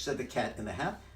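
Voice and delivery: ordinary delivery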